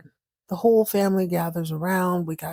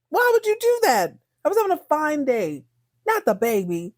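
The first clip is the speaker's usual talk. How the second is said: high, hammed-up wail of dismay; mock anguish; 7 semitones higher than usual. Real, not acted. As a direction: wail why would you do that in fake despair. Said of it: "Oh, I'm devastated".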